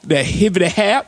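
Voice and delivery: white dad impression. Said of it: "Such a white dad thing to say".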